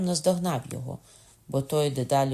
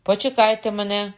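shout; 7 semitones higher, 7 dB louder than usual. A narrator's reading. Character calling after others.

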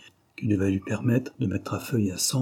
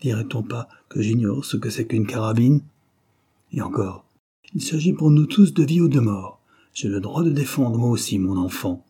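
steady and firm, rising louder on the stakes; firm wife's reply with one louder burst; 3 dB louder than usual. Acted. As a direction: stand her ground, resolute. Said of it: "d'une voix ferme".

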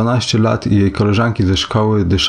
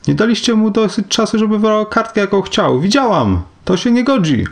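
acted outcry in a much higher voice; high-pitched cry; 13 semitones higher than usual. A narrator's reading. Tessie protesting to Mr. Summers about the draw, crying out high. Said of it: "Tessie Hutchinson krzyknęła do pana Summersa".

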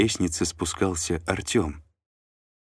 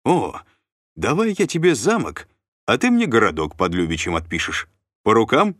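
higher, louder, fired up by the deal; eager; 5 semitones higher, 5 dB louder than usual. A narrator's reading. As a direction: pitch the trade with sudden eagerness. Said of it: "Тут же загорелся он". (загоревшись, с азартом)

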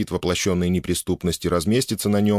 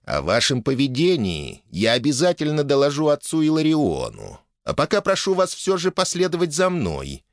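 formal, offended official, pitched up; a touch of an indignant functionary, higher; lightly voiced stiff official; 5 semitones higher than usual. A narrator's reading. Official threatens to report Obukhov's behaviour, stiff and offended.

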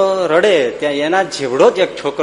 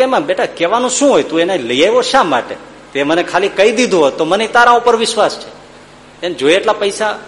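kind father; 6 semitones higher than usual. Acted. Father answers his son kindly.

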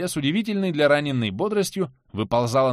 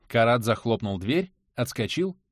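plain reading voice

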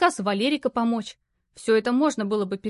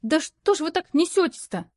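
mild mock yell; 7 semitones higher than usual. A narrator's reading. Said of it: "заорала".

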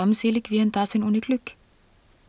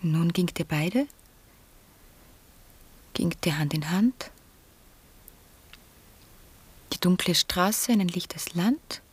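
whispered verse. Acted. Johanna whispers a remembered verse about the dead. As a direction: murmur the lines like a remembered poem.

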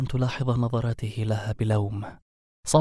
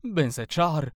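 بنسة شعر thrown back higher in disbelief; incredulous outburst; 4 semitones higher than usual. A narrator's reading. Werewolf yelling بنسة شعر back at the wizard. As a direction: repeat بنسة شعر as an outraged yell. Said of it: "قبل أن يصرخ".

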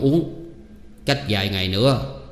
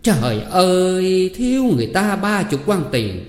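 much higher, shrill-pitched nagging aunt; loud scolding; 7 semitones higher than usual. A narrator's reading. Greedy aunt demands full payment from the girl, scolding loudly. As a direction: hands on hips, berate her loudly. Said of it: "đứng chống nạnh hai tay mà nói lớn rằng".

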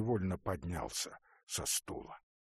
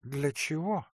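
usual speaking voice

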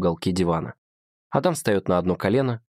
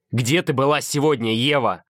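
raised and insistent; demanding question; 5 semitones higher, 3 dB louder than usual. A narrator's reading. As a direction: press her hard for an answer. Adam interrogating her.

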